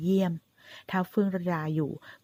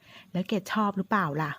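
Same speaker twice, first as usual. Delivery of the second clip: teasing question; 2 semitones higher, slower than usual. Acted. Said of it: "ถามล้อๆ".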